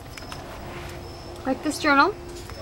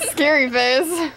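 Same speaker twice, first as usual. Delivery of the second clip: mock scary; much slower than usual. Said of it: "Made not so scary".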